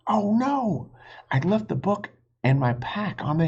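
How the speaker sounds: high, alarmed realization; a boy realizing he left his pack, dismayed. A narrator's reading. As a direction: gasp out the bad news.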